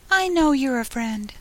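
high, small insect voice; little voice. A narrator's reading. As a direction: plead gently in a tiny high voice. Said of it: "the little voice went on".

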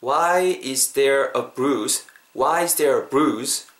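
each word of "Why is there a bruise" drawn out; slow demonstration. Shown as a demonstration. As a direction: say it slowly for learners. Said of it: "한 번만 더 천천히".

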